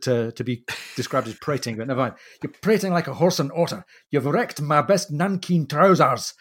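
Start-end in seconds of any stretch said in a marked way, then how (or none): 2.4-3.9 indignant Scottish naval officer, pitched higher; a Scotsman scolding in a Scottish accent; mock-indignant Scottish outburst. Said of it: "phoneticizes this Scottish accent". 4.1-6.3 put-on a light Scottish accent, indignant and slow; lightly voiced indignant Scot, slowed down; understated Scottish complaint; mild Scottish accent. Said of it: "this Scottish accent just enough that you can really hear this indignant, outburst".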